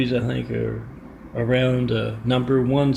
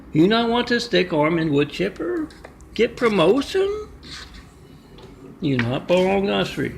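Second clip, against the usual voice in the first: a lightly put-on accent, mocking and pushy; mock Chinese accent, taunting; 3 semitones higher than usual. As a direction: sneer at the worker in a mild broken-English voice. Ming taunts Wang before firing him.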